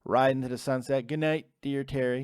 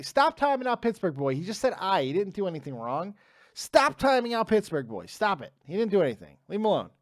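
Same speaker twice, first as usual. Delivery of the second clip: exasperated scolding; 2 semitones higher than usual. Real, not acted. Streamer telling a moderator to leave a viewer alone, exasperated. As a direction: tell them off and mean it. Telling mod to stop timeouts.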